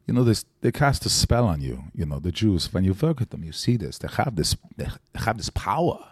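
put-on film villain's monologue in a German accent; deliberate, halting German-accented speech. Actor redoing his dialect class monologue, German accent. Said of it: "like, a German accent".

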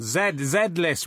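"Z" said slowly as "zed"; "Z, Z List" with a careful "zed"; British Z. Shown as a demonstration. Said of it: "We say Z over here".

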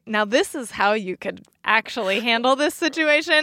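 mildly talking down to parents; lightly mock a condescending helpful explainer; patronizing. Show talking down to parents, mock patronizing. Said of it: "they're talking down to me".

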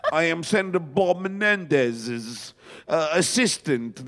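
slow mock-English delivery; bad English accent. Prank caller introducing himself as an assistant, bad English accent. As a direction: fake an English accent, badly and slowly. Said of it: "I had this bad English accent".

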